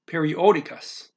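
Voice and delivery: periódicas, leaning on the accented O; stress on the O. Shown as a demonstration. Teacher repeating a Portuguese word, stressed O in periódicas. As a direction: make the O in periódicas stand out. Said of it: "gotta put that O loud".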